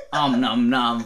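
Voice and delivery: loud, laughing eating noises; mock munching. A narrator's reading. Four eating with food flying, loud mock munching. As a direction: chomp the syllables loudly, hammed-up. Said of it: "spitting food e-, everywhere".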